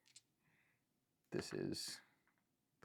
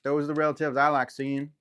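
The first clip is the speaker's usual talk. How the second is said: bandit; 8 semitones higher, 9 dB louder than usual. Acted. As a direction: lay down the law like a rough toll-keeper. GM voices a bandit.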